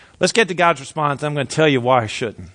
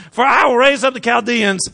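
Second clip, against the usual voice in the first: raised, declaiming Bible verse; scripture reading; 7 semitones higher than usual. A narrator's reading. Preacher reads God's answer aloud, raised declamation. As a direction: proclaim the verse from on high.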